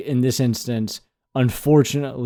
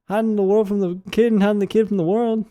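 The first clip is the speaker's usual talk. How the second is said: rapper impression; 8 semitones higher than usual. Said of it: "him saying".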